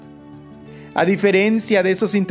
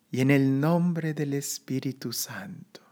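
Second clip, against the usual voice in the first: whispered; 4 semitones lower, 7 dB quieter than usual. Real, not acted. Closing invocation of meditation.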